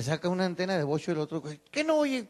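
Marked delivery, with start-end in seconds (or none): 1.7-2.2 loud, heated street yell at the other guy; a cholo shouting him down; angry yelling. Acted. A cholo yelling at the guy who bugs him, angry and loud.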